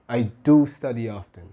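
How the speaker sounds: "do" pushed out firmly, then falling; stress on do. Shown as a demonstration. Teacher affirming the fact to learners, stress on "do". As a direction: affirm it by leaning on "do". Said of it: "I'm emphasizing the fact that".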